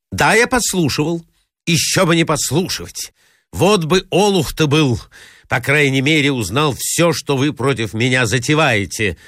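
bluster, working up his anger; rude retort. Acted. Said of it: "грубо отвечал Мозгляков". (грубый, вызывающий ответ повыше)

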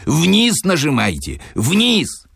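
very high, insistent instructions; acted yell at contained volume; shouting over water. A narrator's reading. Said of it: "выкрикивал Филипп Филиппович".

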